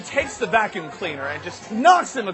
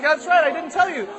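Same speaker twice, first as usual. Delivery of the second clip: high, slightly raised motherly voice; scolding mom; 9 semitones higher, 4 dB louder than usual. Acted. Mother reminds her son, mild scolding. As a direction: put on a lightly scolding mother. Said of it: "She's like".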